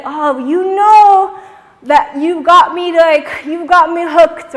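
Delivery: loud lovestruck sigh of a line; smitten and hooked. Shown as a demonstration. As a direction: gush it like you're hooked on him. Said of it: "the face has to be like".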